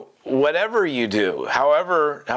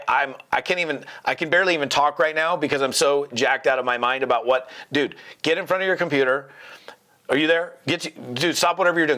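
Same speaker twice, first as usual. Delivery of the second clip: quick, urgent, pumped-up phone call; jacked-up invite call; fired up. Shown as a demonstration. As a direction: push him to the computer, buzzing. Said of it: "can you see the total difference between the two".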